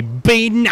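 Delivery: "banana" stretched out in a put-on Australian accent; exaggerated Australian banana. Shown as a demonstration. Gamer shows how Australians say "banana", hugely stretched vowels. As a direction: drag out every vowel of "banana", Australian style. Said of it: "when you say the word banana".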